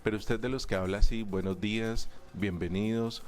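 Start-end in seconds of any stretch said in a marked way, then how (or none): 1.2-3.2 slow, dragging, lifeless presenter voice; boring monotone. Shown as a demonstration. Speaker mocks a dull presenter in boring tone. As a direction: put the room to sleep, draggy and dull. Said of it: "No, y el tono aburrido".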